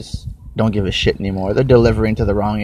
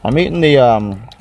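mouth full; 3 semitones higher than usual. Real, not acted. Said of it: "Eat my Cliff Bar".

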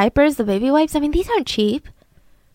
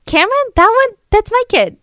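shocked mom; 10 semitones higher, 5 dB louder than usual. Retold or imitated.

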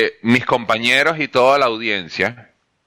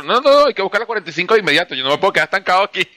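rushed, higher mock-impatient voice; impatient imitation; 4 semitones higher, much faster than usual. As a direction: rattle it off like an eager champion. Imita a Verstappen impaciente. (imitación apresurada e impaciente)

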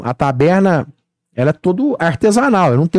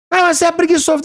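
a higher, mocking accuser's voice; mock accusation; 12 semitones higher, faster than usual. Lightly mimicking people calling him lazy. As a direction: toss it off like a scornful customer.

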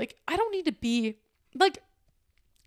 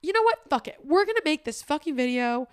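fired-up resolve; 4 semitones higher, 5 dB louder than usual. Retold or imitated. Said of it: "And so I was like".

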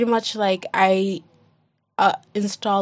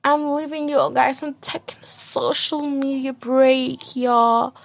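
mock announcement; 5 semitones higher than usual. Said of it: "I didn't even say".

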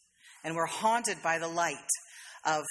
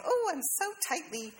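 lightly voiced pleased little bud; a hint of dainty vanity; self-admiring flower bud; 3 semitones higher than usual. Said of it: "I think it's going".

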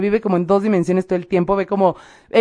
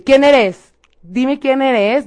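retold demand, higher and louder at the start; demanding challenge; 5 semitones higher, 3 dB louder, much slower than usual. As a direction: challenge an unseen presence, drawing out the end. Rehearsed challenge to a spirit.

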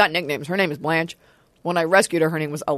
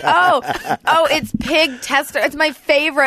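high, gushing hipster parody; mock hipster; 5 semitones higher than usual. Hipster raving about weird food for social acceptance, mock gushing. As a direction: coo over it in mock delight. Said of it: "what every hipster craves to eat".

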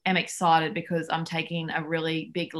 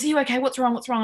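retold alarm; 7 semitones higher, faster than usual. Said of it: "Brandon runs in thinking".

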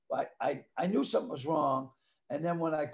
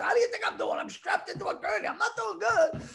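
mock exasperated yell. Retelling his reply to neighbours from the gurney, mock exasperated yell. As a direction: bark back in mock outrage.

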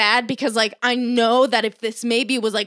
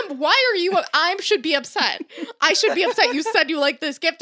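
higher-pitched mock protest; acted indignation; 3 semitones higher than usual. Daughter argues with mom over gift, acted indignation. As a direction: argue back at mom, half laughing.

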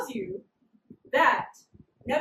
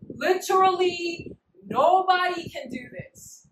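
slow, drawn-out protest at higher pitch; emphatic protest; 4 semitones higher, 4 dB louder, slower than usual. Retold or imitated. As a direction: stretch each word, insisting to the king. Wise men pleading with the king.

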